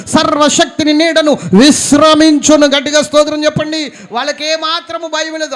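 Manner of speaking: high, loud, fervent sermon climax; full-force preaching. Acted. Preacher rousing the congregation, at full force. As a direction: preach it with everything.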